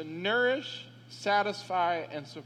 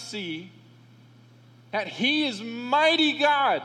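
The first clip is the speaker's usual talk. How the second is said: louder, higher preaching at full force; preaching fervor; 4 semitones higher, 3 dB louder than usual. Real, not acted. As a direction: lift the congregation with rising fervor.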